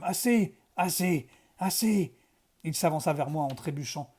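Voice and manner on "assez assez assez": plaintes répétées plus hautes et plus fortes; gémissement répété. A narrator's reading. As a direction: supplie à chaque reprise. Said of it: "gémit Broxholm". (Broxholm gémit assez encore)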